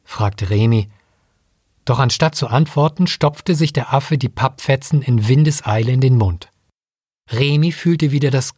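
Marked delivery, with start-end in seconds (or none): none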